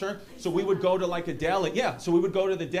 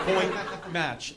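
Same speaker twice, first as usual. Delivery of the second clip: put-on British umpire voice; prestigious British accent. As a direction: call it like a posh British umpire. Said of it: "like, prestigious accent".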